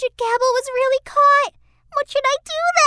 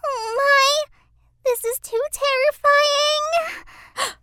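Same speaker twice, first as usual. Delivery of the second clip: frightened; 3 semitones higher, much slower than usual. Acted. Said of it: "Reddy Hood gasped in astonishment".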